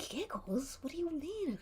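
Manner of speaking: hushed, breathy confusion; whispering. Acted. Party members whispering to each other in shock. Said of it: "everyone's whispering".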